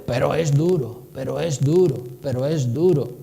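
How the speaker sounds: "duro" dropped low and dragged, sighing; stress on duro. Shown as a demonstration. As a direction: lean on "duro" as a complaint. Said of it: "Ponen el énfasis en "pero es duro". (énfasis en "duro", grave y quejumbroso)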